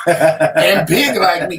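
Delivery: slow words through a laugh. Real, not acted. Man joking with the widow, laughing as he speaks. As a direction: laugh it out, pleased with the joke.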